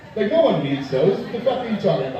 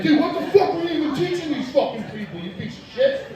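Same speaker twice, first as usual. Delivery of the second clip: mock yelling; 9 semitones higher than usual. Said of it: "started in on the fucking instructor".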